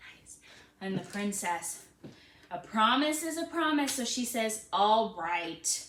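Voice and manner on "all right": displeased tone. Acting out the princess letting the frog stay: not happy. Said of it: "show me you're not happy".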